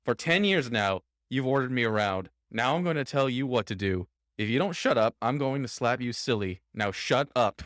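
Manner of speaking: mock yelling. Meek secretary finally telling off his boss, mock yelling. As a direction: act out standing up to a boss, without a full shout. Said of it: "he's yelling at his boss".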